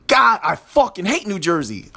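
a firmer, angrier retake. Shown as a demonstration. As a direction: bite down harder on the hate. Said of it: "that was a little bit better".

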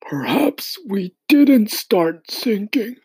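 slow, high, hushed suggestion; whispered. A narrator's reading. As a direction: whisper it slowly. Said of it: "the old green grasshopper suggested".

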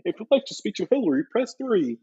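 high, bright automated phone greeting; phone menu voice. Pretend. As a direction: read it like a cheery phone menu.

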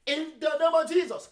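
ordinary talk

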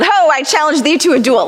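put-on tossing off a playful old-timey duel challenge; mock Robin Hood. Preacher mimicking Robin Hood for the congregation, lightly hammed. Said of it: "Or like Robin Hood".

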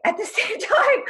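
laughing through words. Real, not acted. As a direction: laugh as you say it. Laughs while speaking.

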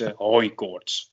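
blocked nose from hay fever; slow and congested, nose stuffed up; stuffy nose. Real, not acted. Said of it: "ik klink wat verkouden". (verstopte neus)

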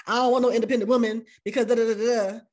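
fast, scornful take on his words; dismissive mock quote. Mocking the man who rejects independent women, fast and scornful. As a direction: toss off independent like a swear word. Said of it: "the way he threw out the word independent".

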